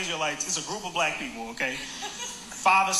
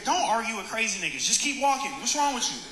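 higher-pitched, mildly exasperated; exasperated urging; 3 semitones higher than usual. Retold or imitated. Man urging his girlfriend past the preacher, exasperated. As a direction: plead with her to move along.

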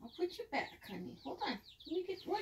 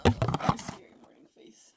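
whispering. Real, not acted. Whispered aside.

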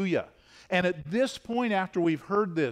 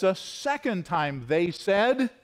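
drawn out with a rising end, cueing the crowd; slow prompting cue; 3 semitones higher, slower than usual. Shown as a demonstration. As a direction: stretch it out and leave it hanging for the congregation. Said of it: "See, you're awake".

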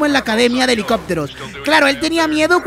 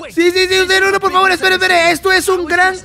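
pleading; 6 semitones higher than usual. Pretend. Gamer pleads with the scientist.

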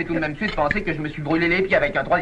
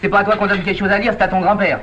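slightly raised, firm telling-off; scolding grandfather; 3 semitones higher, 4 dB louder than usual. Acted. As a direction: put a pushy grandchild in their place. Grandfather scolds the interrupting child.

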